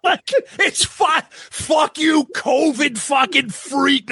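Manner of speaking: mock covid troll. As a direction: snarl like an online troll. Imitating angry commenter.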